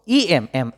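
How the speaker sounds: ইএম split to show its opening vowel, then এম; sound demo. Shown as a demonstration. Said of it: "এভাবেই তো প্রনাউন্সিয়েশনটা হইতেছে".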